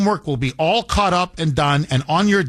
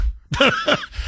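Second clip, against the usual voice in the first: short high laugh; 11 semitones higher than usual. Real, not acted. Laughing at kids' teasing.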